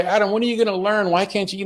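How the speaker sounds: high, fast scolding; exasperated parent. Retold or imitated. Tempted parent scolding Adam, high and exasperated. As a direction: snap at the kid in frustration. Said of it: "the temptation is to say".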